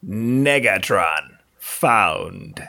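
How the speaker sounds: robot game voice. Acted. Imitating the electronic game voice.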